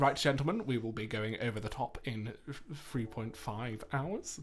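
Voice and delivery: a hint of an officer briefing his men; British general. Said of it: "I also had to be a British general".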